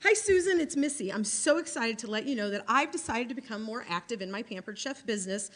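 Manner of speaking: bright sample call opening; cheery phone script. Shown as a demonstration. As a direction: read the script like a friendly call. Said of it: "example of something that you could say".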